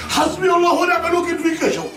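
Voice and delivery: furious curse. Acted. Father furious at disgraced son.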